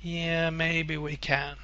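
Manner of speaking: slow, doubtful half-agreement; a wary colleague holding back; cautious, hesitant. Retold or imitated. A conservative colleague hedging in the meeting, slow and doubtful. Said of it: "someone else in the business who might be more conservative".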